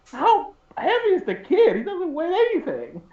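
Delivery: high-pitched disbelief at the retold excuse; mock-baffled protest, voice pitched high; incredulous retort. Retells his baffled reply to friend.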